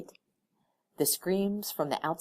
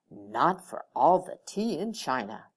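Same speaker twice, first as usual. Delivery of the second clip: mumbled under the breath, words running together; mumbling; 2 semitones lower, 4 dB louder than usual. A narrator's reading. The departing employee mumbling to himself on the way out. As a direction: mutter it to yourself as you leave. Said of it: "He just kept mumbling".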